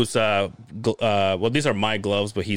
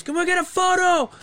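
imitated friend. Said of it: "he looked at me and goes".

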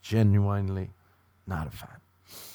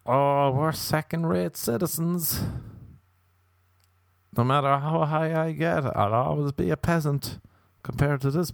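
groveling peasant; 4 semitones higher than usual. Retold or imitated.

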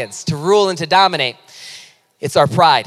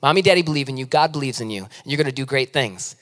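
parent's blessing; 6 semitones lower, 5 dB quieter than usual. Retold or imitated. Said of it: "we always say".

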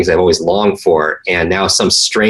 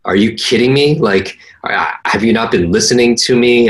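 mock disbelief; 4 semitones higher than usual. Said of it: "and I was like".

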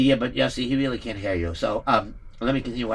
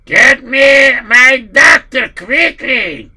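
urgent shout; 8 semitones higher, 11 dB louder, much slower than usual. Acted.

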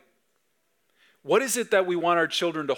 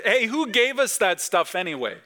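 put-on prompting the kids; 7 semitones higher than usual. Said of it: "but something like".

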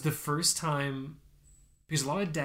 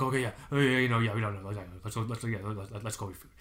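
flustered, fading; 4 semitones lower, faster than usual. Retold or imitated. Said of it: "I'm like".

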